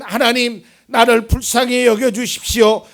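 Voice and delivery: loud, high, pleading cry to God; David's desperate plea. Acted. Preacher voicing David crying out to God, loud and desperate. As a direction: voice David begging God to see his tears. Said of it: "그래서 다윗은".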